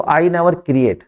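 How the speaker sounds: very slow, careful model sentence; teacher dictating the answer slowly; slow dictation. Shown as a demonstration. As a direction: lay out each word slowly. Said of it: "आई और you के साथ S".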